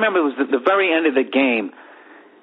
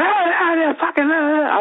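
mock yelling; 13 semitones higher than usual. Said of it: "So as he's yelling".

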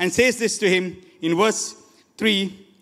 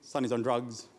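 low, soft imitation of lamenting parents; understated, downcast grumble; subdued complaining; 9 semitones lower, 6 dB quieter than usual. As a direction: quietly voice a parent's list of woes. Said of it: "They're always complaining about the children".

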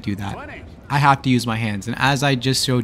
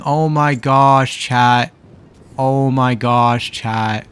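real exasperation; 4 dB louder, much slower than usual. Real, not acted. Streamer reacting to trolling.

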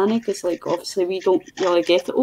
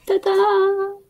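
high, ringing ta-da; ta-da reveal; 13 semitones higher than usual. Real, not acted. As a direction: present it with a flourish. Proud reveal of artwork.

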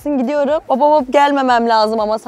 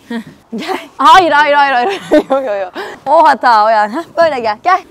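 usual speaking voice

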